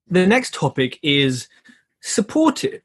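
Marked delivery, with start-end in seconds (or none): 2.0-2.8 "supportive" pitched high and rising like a question; questioning rise. Shown as a demonstration. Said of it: "No, it's supportive".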